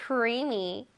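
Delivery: Creamy said alone and carefully; pronunciation model. Shown as a demonstration. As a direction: model Creamy for learners to repeat. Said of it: "자, 한번 발음해 볼게요".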